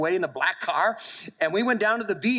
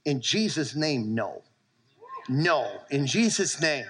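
worked up. Real, not acted. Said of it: "I'm worked up".

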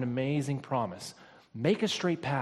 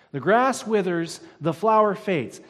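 louder, higher proclamation of The grass withers; loud preached repeat; 5 semitones higher, 8 dB louder than usual. Acted. Pastor repeating the verse to his congregation, loud and proclaiming. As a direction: call the line out over the hall. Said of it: "he repeats it again".

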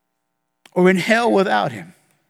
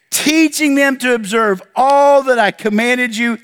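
scripture reading. Acted. Pastor reads Great Commission aloud.

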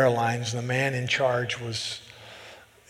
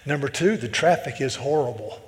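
retold Southern man's complaint; thick Southern accent. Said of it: "this guy was thick".

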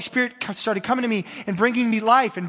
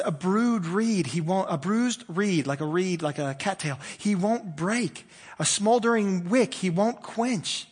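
scripture reading. Acted. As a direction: lay each phrase down gently. Reading scripture slowly, softly.

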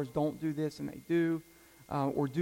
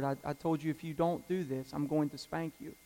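gentle father; 6 dB quieter than usual. Retold or imitated. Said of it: "I always say the same thing to them".

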